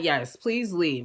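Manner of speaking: slow, restrained retold reply; calm. Woman letting her angry guest leave, still calm. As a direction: keep it unruffled and unhurried. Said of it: "I'm calm. I'm still calm".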